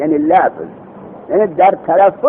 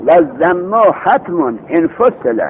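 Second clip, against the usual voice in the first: very slow chanted reading of the verse; slow chanted grammar verse; slow verse recitation; much slower than usual. Shown as a demonstration. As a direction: draw out each word of the line. Recites the line of verse again.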